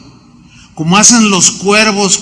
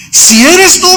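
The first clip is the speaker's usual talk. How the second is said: high, unsure call; doubtful question; 10 semitones higher, 5 dB louder, slower than usual. Acted. Peter doubting in the dark, unsure call.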